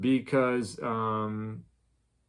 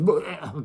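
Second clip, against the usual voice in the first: mock gagging on words; 5 semitones higher, 3 dB louder than usual. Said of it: "'cause they can't even say it".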